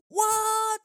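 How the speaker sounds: high, loud startled what; loud shocked squeak. Retold or imitated. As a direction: yelp it like a scared kid. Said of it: "I was like".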